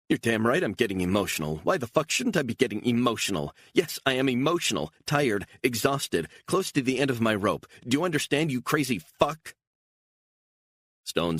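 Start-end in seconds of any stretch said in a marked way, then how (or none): 0.1-9.6 high and loud, at the end of her rope; furious outburst. Acted. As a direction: let it all out on him. Beatrice explodes at Stone.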